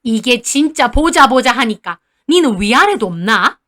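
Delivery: a hint of an indignant old grandmother; scolding back. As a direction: put the daughter-in-law in her place. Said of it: "할머니도 지지 않고 따지시더라고요".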